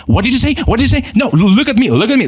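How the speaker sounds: high, challenging mock retort; lightly acted "what did you say"; mock confrontation. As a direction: toss it back like a defensive bystander. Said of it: "And they're just like".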